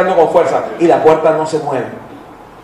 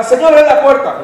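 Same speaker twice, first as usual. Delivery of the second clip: high pleading cry of "abre"; pleading prayer; 8 semitones higher, 4 dB louder than usual. Retold or imitated. Believer begging God to reopen the door, high pleading. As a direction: beg the Lord to open, voice lifted high.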